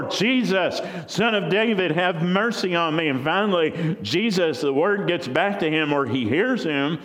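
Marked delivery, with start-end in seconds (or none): 0.0-3.1 higher, more desperate pleading call; crying out louder. Acted. Blind beggar cries to Jesus again, more desperate call. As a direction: push the plea further, persistent. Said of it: "he cried out more".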